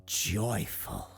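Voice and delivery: lightly voiced showman, halting dramatically between phrases; awed circus owner. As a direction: linger reverently on each wonder. Circus owner continues his tale.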